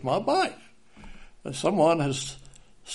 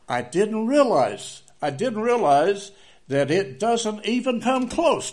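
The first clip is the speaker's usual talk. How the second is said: emphatic preaching; 8 semitones higher, 4 dB louder, slower than usual. Real, not acted. Preacher stresses realization.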